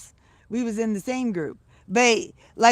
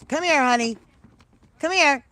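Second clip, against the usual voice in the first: raised, lilting call; coaxing pet call; 4 semitones higher, 4 dB louder than usual. Real, not acted. Grandma calling her pet to come, coaxing lilt. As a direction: coax a frightened pet over.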